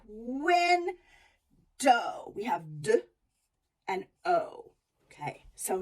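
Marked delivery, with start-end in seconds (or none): 0.1-1.0 Window called out higher; sing-song call; dog calling. Shown as a demonstration. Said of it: "There's our syllable break".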